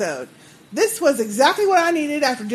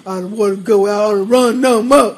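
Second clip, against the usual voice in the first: louder, hammed-up crying whine; mock whining; 6 dB louder than usual. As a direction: pretend to blubber and complain, half laughing. Parodying a character's whining.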